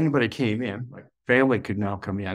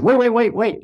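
much higher and louder call; 10 semitones higher, 6 dB louder than usual. Retold or imitated. Calling back the departing priest: sharp high call. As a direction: stop him before he leaves.

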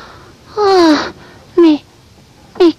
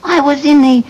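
put-on French-Canadian accent. Bird telling friends about the storm, Quebec accent. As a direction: storm tale in dramatic Québécois English. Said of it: "Because she's from Quebec".

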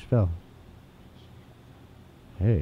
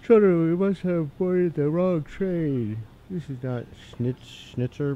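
put-on much higher, slow German-accented mother; hammed-up German accent, softer; 5 semitones higher, 3 dB quieter than usual. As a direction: fuss over the wrong train in a German accent. Voices German doll family.

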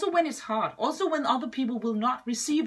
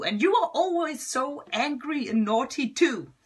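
retold angry reply; 4 semitones higher, 3 dB louder than usual. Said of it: "I replied in a very angry voice too".

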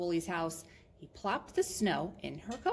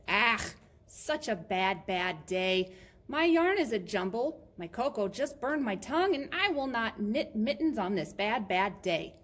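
mildly hammed-up cross complaint; grumpy Missus Woolley; 3 semitones higher, 4 dB louder than usual. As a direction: grumble emphatically, leaning on each word. Grumpy knitter refuses, in story.

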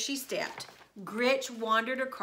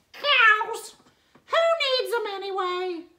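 a hint of grumbling witch; 11 semitones higher, 7 dB louder than usual. A narrator's reading. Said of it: "muttered Gretch".

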